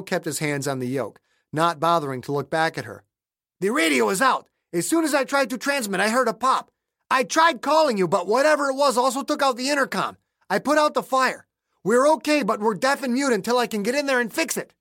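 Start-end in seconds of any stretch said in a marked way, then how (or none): 3.6-14.7 pilot voice. Acted. Pilot explains radio fire.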